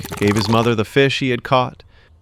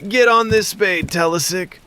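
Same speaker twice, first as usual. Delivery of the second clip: put-on young snake ordering; 9 semitones higher than usual. Snake daughter orders boy.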